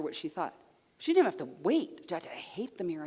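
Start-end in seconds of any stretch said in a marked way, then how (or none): 2.3-3.1 hushed retelling of her answer; quiet confession. Retold or imitated. Repeats the woman's confession.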